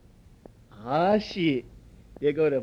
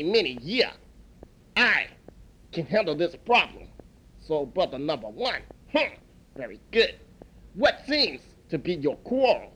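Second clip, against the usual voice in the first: a lightly voiced old master, a bit lower and calm; wise old master; 3 semitones lower than usual. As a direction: soothe the quarrel like an ancient sage. Wise elder steps in to calm.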